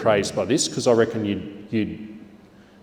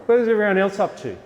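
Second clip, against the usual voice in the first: much higher, bright call to the whole room; teacher call to the class; 10 semitones higher, 4 dB louder, faster than usual. Shown as a demonstration. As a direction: lift your voice to the class. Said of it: "And say".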